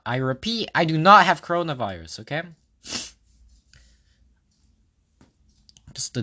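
stuffy nose from dust; sniffling. Real, not acted. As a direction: talk through a sniffly nose. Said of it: "I've been sniffling the entire episode".

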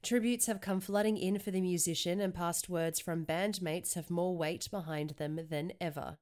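measured headline reading; news read. Acted. Reads music news headlines.

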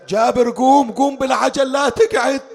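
high, loud rousing cry; urgent call. Acted. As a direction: urge him up at once, high and insistent. Boy urgently rouses Jaber.

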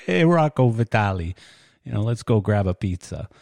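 a hammed-up New York mobster accent, lightly done; bad New York accent. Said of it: "that was a really bad New York accent".

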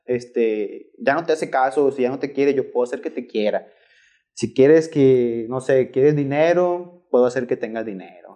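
slow and persuasive, like a witch offering spells; witch's pitch. Retold or imitated. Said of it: "hablar como con un tono de voz medio ronco".

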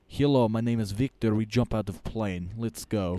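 a hint of a laid-back Russian instructor; Victor's Russian accent. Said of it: "my instructor was Russian".

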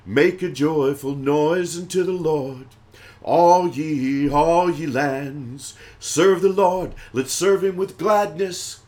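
ringing, declaimed scripture; preaching psalm recitation. Acted. Preacher urging all lands to serve the Lord, proclaiming. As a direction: proclaim the psalm as rousing praise.

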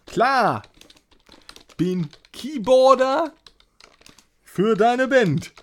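slow, loud metal growl. Shown as a demonstration. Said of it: "ja, ich kann growlen".

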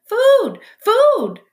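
put-on tiny high-pitched baby bird cry; peeping gosling. A narrator's reading. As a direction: peep loudly like a hungry hatchling. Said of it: "That tiny voice".

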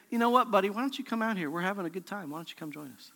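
softening down to a murmur; mock casual invite. Pastor mocking a casual Jesus, fading to a murmur. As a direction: coax him out like a friend at a party. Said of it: "he doesn't say".

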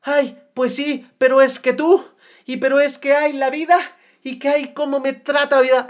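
mock a self-pitying partner; hammed-up whiny excuses; whiny victim.

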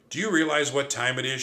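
mock outrage at the early hour; shrieking. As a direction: snap at him for waking you. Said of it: "she shrieked".

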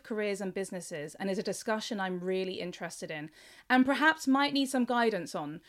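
scripted host introduction, measured and clearly phrased; presenter reading a prepared show opening; podcast intro. Acted. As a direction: introduce the guest to listeners.

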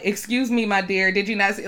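a hint of a condescending older man; mock polite old man. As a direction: imitate his fake politeness. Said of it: "the way he approached Robin".

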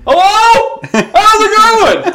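high loud mock phone greeting, slow; loud phone talker. Mocking the man's phone call, a high loud greeting. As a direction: ham up a loud talker answering his phone. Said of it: "he answers the phone".

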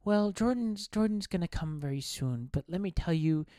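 a hint of a sweet stage host; mock gentle wife stalling the crowd; light mock wife voice; lightly voiced wife. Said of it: "She's like".

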